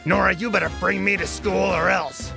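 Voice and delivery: bossy, angry toy threat; Mixie. Acted. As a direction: threaten like a mean little toy truck. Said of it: "Mixie started getting even more angry".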